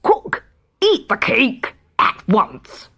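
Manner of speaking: slow royal order called upward; a mild call up to the cook; commanding king calling out. Acted. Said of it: "So he called out".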